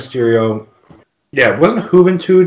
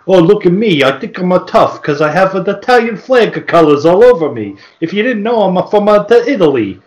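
a hint of a cocky Italian wannabe, pitched up; lightly voiced brag, puffed up; mock tough guy; 5 semitones higher than usual. Podcaster mocking a Staten Island wrestler, lightly hammed-up.

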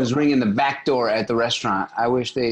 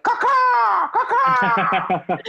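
high, shouted caw-caw bird cry; bird mating call; 4 dB louder, much slower than usual. Pretend. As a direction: squawk it like a bird calling a mate. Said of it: "I'm picturing a mating call".

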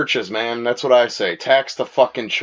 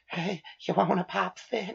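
put-on softer, slow creepy old-man voice; Herbert the Pervert; 6 semitones higher, 10 dB quieter than usual. Mocking a cartoon character with a slow soft creepy voice. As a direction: breathe it like a leering old man. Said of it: "Family Guy, Herbert the Pervert".

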